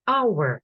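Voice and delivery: Hour said as "our", with no h sound at the start; silent h. Shown as a demonstration. Teacher showing pupils that the letter h in Hour is silent, with no h sound. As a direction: drop the h fully in Hour. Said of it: "але вона не промовляється".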